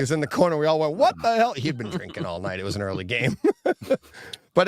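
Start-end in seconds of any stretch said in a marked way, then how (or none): 1.0-1.5 high, loud "What the hell?"; stunned yell as the crowd saw it; shocked shout. Retold or imitated. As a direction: blurt it out in disgust. Group reacts to gross hockey incident.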